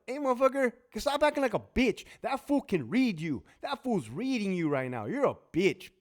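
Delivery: high, scornful scolding; mock yelling at screen. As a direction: yell at the TV in disgust. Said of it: "I'm yelling at the T V screen".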